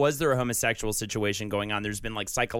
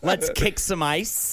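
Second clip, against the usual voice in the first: Arnold Schwarzenegger voice; 2 semitones higher, slower than usual. Pretend. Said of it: "good Arnold Schwarzenegger".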